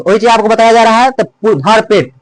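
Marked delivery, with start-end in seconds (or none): 1.6-2.1 slow, both भर and पेट weighted; stress on भर and पेट. Shown as a demonstration. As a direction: give भर and पेट each their own beat. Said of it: "भर पर भी बल लग रहा है". (भर और पेट दोनों पर बल, धीरे)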